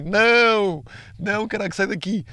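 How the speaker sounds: high, loud panicky plea; shooing away a panic attack in a rising voice; panicked self-talk. Retold or imitated. Retelling a panic attack, high panicky pleading.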